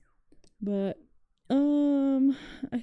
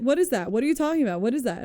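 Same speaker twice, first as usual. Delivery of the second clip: raised, irritated retold questions; mock yelling bartender; 4 semitones higher, faster than usual. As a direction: fire the questions like an annoyed bartender. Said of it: "yelling at us".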